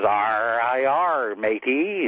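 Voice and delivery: lightly hammed-up pirate accent. Pirate greeting a man at the bar, pirate accent. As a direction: answer as a joke pirate, accent rolling. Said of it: "slid back and forth into that pirate accent".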